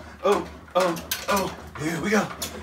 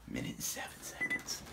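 winded; 18 dB quieter than usual. Real, not acted. Winded after the machine.

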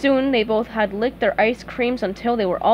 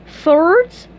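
high, loud questioning lift; hopeful offer; 7 semitones higher, 7 dB louder than usual. Acted. Patrick suggests thirds minutes later, hopeful. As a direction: ask it eagerly, pitched up.

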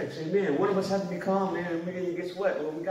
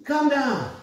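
calm reassurance; 6 semitones higher, much slower than usual. Retold or imitated. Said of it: "the answer is".

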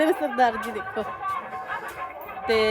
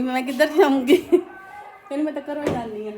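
laughing. Real, not acted. Laugh heard while retelling.

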